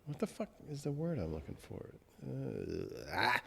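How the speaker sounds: words catching in the throat; voice breaking. Real, not acted. Grieving host searching for a word, voice cracking.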